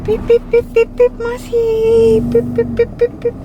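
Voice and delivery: playful beeping. Real, not acted. Playful car beeps to child.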